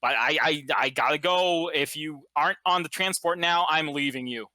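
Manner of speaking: hurried, lightly acted emergency call; a touch of panic over the radio; urgent radio caller. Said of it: "blaring on the radio goes".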